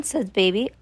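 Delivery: usual speaking voice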